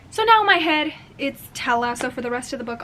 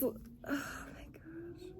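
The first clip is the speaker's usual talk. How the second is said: choked up; 5 semitones higher, 18 dB quieter, much slower than usual. Real, not acted. Crying while reading.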